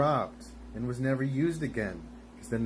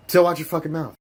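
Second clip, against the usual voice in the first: loud, raised threatening snap; angry threat; 4 semitones higher, 7 dB louder, faster than usual. Acted. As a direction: shout the warning, voice breaking.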